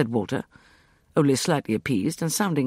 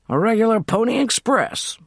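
American approving; 9 semitones higher, 4 dB louder than usual. A narrator's reading. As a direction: approve heartily as Cyrus. Cyrus voiced approving.

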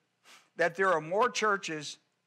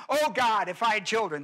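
mock whining prayer; 3 semitones higher, 4 dB louder than usual. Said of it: "whine and cry and complain".

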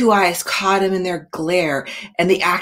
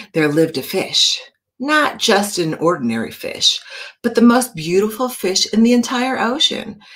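storybook narration. A narrator's reading. Teacher reading a picture book to her class, gently. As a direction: draw the kids into the sea story.

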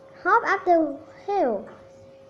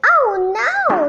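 unhappy; 8 semitones higher, 5 dB louder than usual. A narrator's reading. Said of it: "said Hannah ha-, unhappily".

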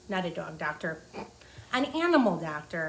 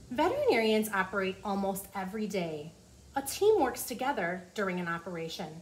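put-on reading to children. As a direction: clear storybook read-aloud. Reading the book aloud.

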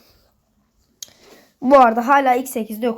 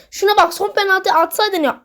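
şuna bak with a hard stress on bak; exasperated; 7 semitones higher than usual. Real, not acted. Rising disbelief at the player.

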